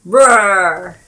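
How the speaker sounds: loud playful monster roar; lion roar. Pretend. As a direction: bellow it like a beast. Players take turns roaring.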